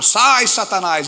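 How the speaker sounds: slow, high, loud rebuke; rebuking the devil. Retold or imitated. Woman rebukes the devil, slow loud shout. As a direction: cast him out with a drawn-out shout.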